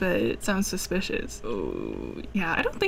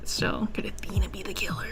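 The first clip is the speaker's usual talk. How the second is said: whispered; 5 dB quieter than usual. Real, not acted. Musing over the mystery.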